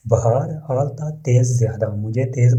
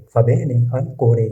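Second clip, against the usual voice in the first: slow model reading; much slower than usual. Shown as a demonstration. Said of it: "teacher models Italian sentence".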